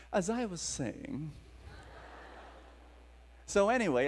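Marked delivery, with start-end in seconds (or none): 0.1-1.3 softer, offhand, as if nothing happened; matter-of-fact, casual. Retold or imitated. Preacher to stunned women, casually carrying on after the miracle. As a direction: toss it off like it happens every day. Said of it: "I said matter-of-factly and very casually".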